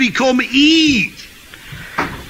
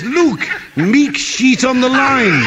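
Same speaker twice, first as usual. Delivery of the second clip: put-on slowish, laughing joke accent; retelling the joke in a mock accent; mock Mexican accent. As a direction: lean on Meek and sheet like the punchline. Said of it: "he doesn't say Mick with him being Mexican".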